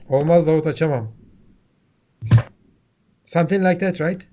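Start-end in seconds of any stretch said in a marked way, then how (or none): 0.1-1.1 louder, curt refusal on Olmaz; blunt Turkish refusal. Shown as a demonstration. Teacher demos how a Turkish movie computer refuses, curt and loud. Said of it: "So say it again".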